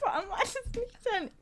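high, laughing through words; cracking up mid-line. Real, not acted. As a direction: ask while giggling. Laughing while asking. (lachend fragend)

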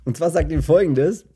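ordinary talk, nothing marked

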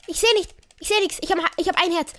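high, rushed panic; panicked. Real, not acted. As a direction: blurt it out in a panic. One heart left, can't see.

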